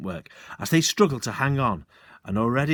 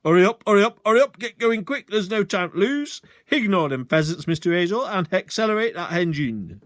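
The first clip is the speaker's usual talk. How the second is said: much louder, commanding; commanding policeman; 8 semitones higher, 5 dB louder than usual. Acted. Sergeant shouting orders through the car window. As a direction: order him off like a constable. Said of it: "his most commanding policeman's voice".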